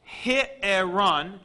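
he-erun, with a clear h sound at the start; Greek word with rough breathing. Shown as a demonstration. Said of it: "this is pronounced".

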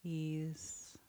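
soft breathy whisper. Real, not acted. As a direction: breathe the word out. Meditation, one word breathed.

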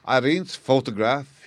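high, slow, loud astonished question; king crying out in surprise; amazed cry. Acted. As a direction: stare in amazement as you ask. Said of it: "he cried".

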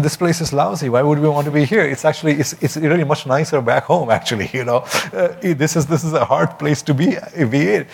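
lightly voiced homesick Shillong worker; young person from Shillong. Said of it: "I was pretending to be this person who was still from Shillong".

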